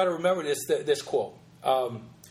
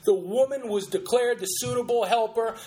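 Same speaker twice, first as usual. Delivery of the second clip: ardent fervor; 3 semitones higher than usual. Acted. Host showing the fervor of the sermon, ardent preaching. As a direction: press each phrase with pulpit ardor. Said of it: "done with such ardent and ardor and fervor".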